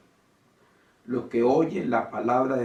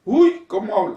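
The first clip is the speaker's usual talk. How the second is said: higher, slow, mock-gushing admirer; imitating a starstruck churchgoer; 9 semitones higher, 6 dB louder, slower than usual. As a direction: swoon over the preacher, hammed up. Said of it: "personas van a reuniones y dicen".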